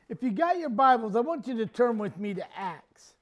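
normal talking voice

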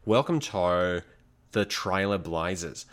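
keeps the mock Aussie voice while introducing the hosts; a jokey Aussie host intro; Australian accent. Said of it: "I kinda want you to just keep this voice".

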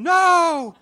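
high, loud laughing shriek. Retold or imitated. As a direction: shriek a refusal through a laugh. Wife refusing to pet snake.

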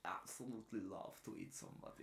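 soft, hushed mock Jewish accent. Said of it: "he went Jewish at the end there".

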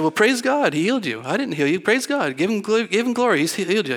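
high, bright bursts of praise on each "Praise God"; excited praise. Retold or imitated. Pastor excitedly tells the healed worker to praise God, high exultant voice. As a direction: lift the voice high and exult, giving God glory.

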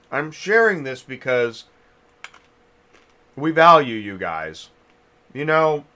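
talking while chewing a lozenge; chewing a cough drop. Real, not acted. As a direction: speak around a cough drop in mouth. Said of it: "sorry, I'm chewing a cough drop".

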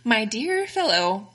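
slow, lifted mock-posh British gentleman; a playful imitation of a British gentleman. Friend retells how Connecticut customers spoke, mock-posh British. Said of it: "They go".

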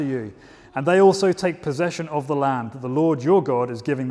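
measured, steady Bible reading to a congregation; scripture reading. Acted. Reads scripture aloud to congregation.

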